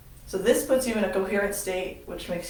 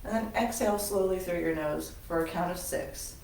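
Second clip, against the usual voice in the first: measured, softening breathing-exercise voice; guided meditation; 4 dB quieter than usual. Acted. Instructor leads class through a counted breath, guided meditation. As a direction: guide them calmly through each breath, leaving pauses.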